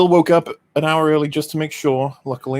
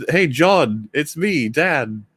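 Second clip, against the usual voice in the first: mock an unnatural greeting, name by name, slightly raised pitch; stilted dialogue; 3 semitones higher, much slower than usual. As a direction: mimic stilted, over-announced TV dialogue. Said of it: "It's like, it's not human".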